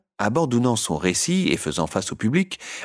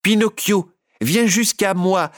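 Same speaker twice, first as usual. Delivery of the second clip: high, louder calling puppet voice; inviting call; 11 semitones higher, 4 dB louder than usual. A narrator's reading. Harlequin calls Pinocchio to the stage, high and fond. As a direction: beckon him over fondly. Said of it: "À cette affectueuse invitation".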